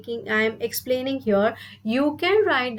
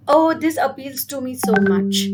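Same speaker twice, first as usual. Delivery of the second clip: delighted model sentence; 4 dB louder than usual. Shown as a demonstration. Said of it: "So you can say".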